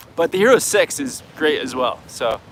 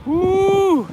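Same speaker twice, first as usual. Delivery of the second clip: excited whoop; 13 semitones higher than usual. Real, not acted. Excited whoop over tough question.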